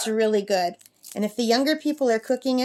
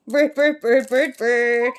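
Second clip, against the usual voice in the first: sing-song call of the word bird; sing-song teaching call; 2 semitones higher, 5 dB louder, slower than usual. Real, not acted. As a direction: chant it so the parrot learns. Repeating word for parrot.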